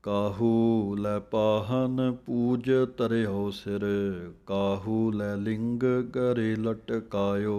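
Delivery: slow recital of "ਕਾਹੂ ਲੈ ਪਾਹਨ ਪੂਜ ਧਰਿਓ ਸਿਰ" in one flow; slow scripture recitation. Shown as a demonstration. Teacher reciting the full line for students, slow. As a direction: read the whole line deliberately. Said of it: "ਕਾਹੂ ਪਾਠ ਬੋਲ ਕੇ ਥੋੜ੍ਹੀ ਜਮਕ ਹੈ".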